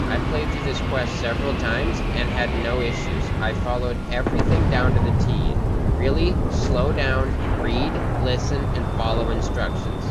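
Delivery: reading it like a whiny nerd; smug nerd reading aloud; nerdy voice. Shown as a demonstration. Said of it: "Allow me to read it in a nerdy voice".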